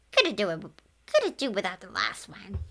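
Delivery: Grim's grumbling creature voice. A narrator's reading. Grim grumbling at the ghosts in creature voice. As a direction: grouse under the breath. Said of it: "Grim grumbled".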